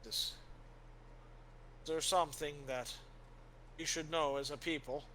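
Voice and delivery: a believer voicing shaken faith; troubled warrior. Helwyn telling Father his faith is shaken, grave and earnest.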